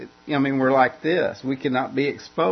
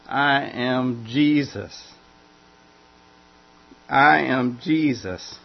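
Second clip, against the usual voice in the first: slow declaration; slower than usual. Acted. Voice from heaven declaring.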